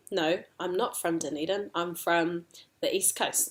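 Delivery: soft contradiction with weight on NOT; debating. Shown as a demonstration. Debating where one is from, mild contradiction stressing NOT. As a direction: counter gently, stressing "not". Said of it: "but we debate it".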